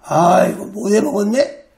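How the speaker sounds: lightly voiced demon, pitched low; low, fed-up grumble, imitating a demon; a hint of a demon giving up; grumbling demon. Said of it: "귀신이 막 찌르다가요".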